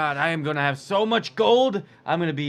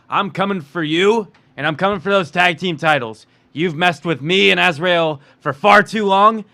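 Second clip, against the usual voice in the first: hammed-up wrestler trash talk, louder on threats; wrestling promo; 3 dB louder than usual. Wrestler calls out Freddie for the tag titles, swaggering. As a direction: cut a promo on your rival, building. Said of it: "Strong words from an inspired man".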